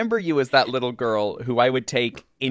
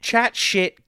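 put-on British accent; 7 semitones higher than usual. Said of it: "as my late British husband would say".

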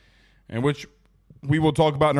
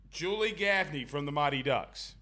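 "Gaffney" said much softer, almost to himself; soft repeat; 9 dB quieter than usual. Shown as a demonstration. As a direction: echo "Julie Gaffney" under the breath. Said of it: "repeats quietly".

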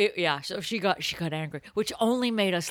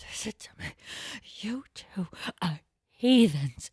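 angry stage whisper. Retold or imitated. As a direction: hiss it so nobody in the abbey hears. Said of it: "stage whisper where she's, like, so angry".

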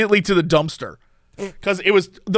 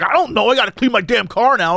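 higher-pitched irritated imitation; mad driver; 4 semitones higher than usual. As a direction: snap back as the put-out driver. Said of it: "he was, like, so mad".

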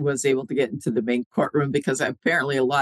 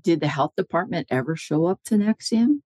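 higher-pitched question with a rising end; retold cross-examination; 4 semitones higher than usual. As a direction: put the question to a witness, ending upward. First asking, as lawyer questioning witness.

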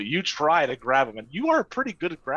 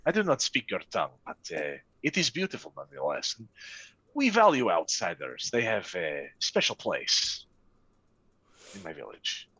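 merchant voice; 5 semitones lower than usual. Acted. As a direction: speak low and measured as a merchant. GM holds the merchant NPC voice.

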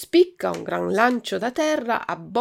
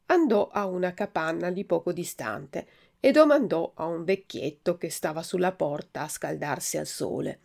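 plain reading voice

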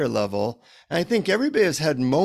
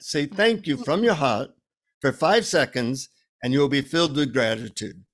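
lightly imitated Indian guru teaching; Indian accent. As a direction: instruct gently in a put-on Indian accent. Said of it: "a deep Indian accent".

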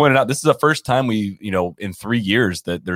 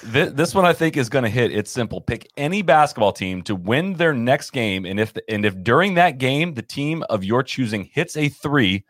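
ad read. Acted. Reads a sponsor ad.

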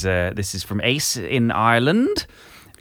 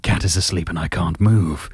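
Gerald voice; 3 dB louder than usual. Acted. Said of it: "just do Gerald again".

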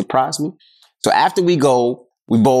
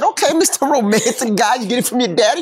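higher teasing dad voice; teasing proud dad; 11 semitones higher than usual. Retold or imitated. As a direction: tease the son like a proud father. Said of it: "I said".

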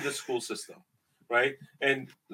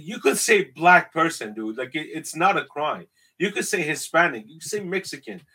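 firm retort; 2 semitones higher, 5 dB louder than usual. Retold or imitated. To rude customers, a loud insistent correction. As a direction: set them straight firmly. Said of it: "I said".

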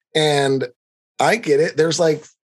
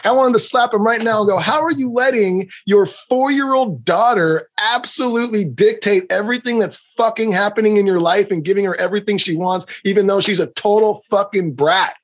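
angry rant; 5 semitones higher than usual. Real, not acted. Ranting at dad.

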